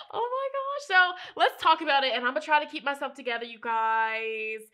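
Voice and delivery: choked up, trying to hold it together; emotional, near tears. Real, not acted. Tarot reader to viewers, choking up with emotion. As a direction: voice rising, fighting back tears. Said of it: "it's making me wanna cry".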